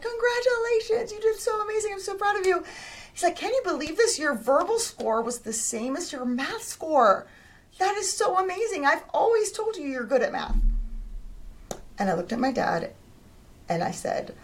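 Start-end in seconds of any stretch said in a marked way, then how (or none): 0.0-10.6 much higher, beaming fatherly praise; proud dad gushing. Retold or imitated. Dad bursting with pride over her SAT scores.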